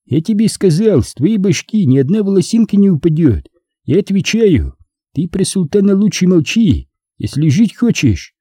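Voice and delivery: high-pitched, insistent character voice; confident opponent persuading. A narrator's reading. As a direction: reason with a cornered man, pressing each point. Narrator voices Abay assuring and warning.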